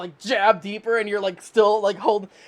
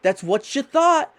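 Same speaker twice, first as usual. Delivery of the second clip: mocking scolding; 2 semitones higher than usual. Knife wife scolding her husband.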